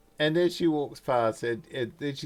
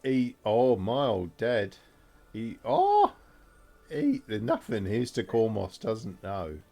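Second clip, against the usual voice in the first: adoring Alicia; slower than usual. Acted. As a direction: gush adoringly over a clever friend.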